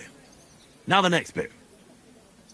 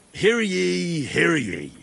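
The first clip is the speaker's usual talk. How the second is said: mock royal decree. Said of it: "How does it all sound together?".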